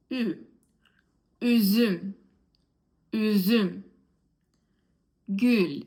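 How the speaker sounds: ü in üzüm, gül, tül, tünel as a rounded ee; each word alone, firm and falling, with pauses to repeat; demonstrated ü sound. Shown as a demonstration. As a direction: model ü clearly for learners. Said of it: "practice those letters with me".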